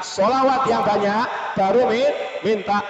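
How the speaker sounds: slowed down, drawing out sholawat; slow preacher emphasis; slow emphatic repeat. Shown as a demonstration. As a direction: spell it out slowly for the congregation. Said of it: "slowed repeat of refrain".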